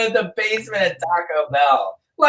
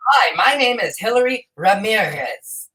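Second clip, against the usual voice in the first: mock newscaster; 3 semitones higher than usual. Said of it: "they roll that in".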